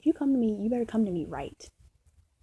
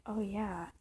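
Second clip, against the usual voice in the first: soft, drifting mock voice, whisper at the end; hushed mock quote; 6 dB quieter than usual. Mocking the idea of liking near death, hushed. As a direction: murmur it like savoring a dark thrill. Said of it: "I was never one to be like".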